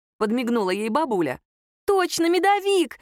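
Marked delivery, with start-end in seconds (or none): 1.9-3.0 high, loud, drawn-out joyful cry; a girl bouncing with glee; bouncing with excitement. A narrator's reading. Nadya cheers for the honey cake, high and excited. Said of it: "запрыгала Надя".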